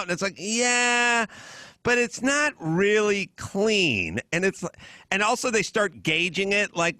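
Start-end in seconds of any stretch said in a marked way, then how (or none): 0.4-4.2 slow, put-on whiny voice; mocking imitation. Mimicking his housemates' complaint, slow mocking put-on voice. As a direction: mimic them as fussy and drawn out.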